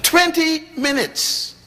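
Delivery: stretched out high in disbelief; astonished. Real, not acted. Preacher marveling to the congregation, drawn out and high. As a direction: marvel at how short it was.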